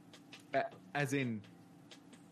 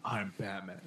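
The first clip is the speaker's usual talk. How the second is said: low gruff Batman voice; Batman growl; 4 semitones lower than usual. Retold or imitated. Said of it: "And he's like".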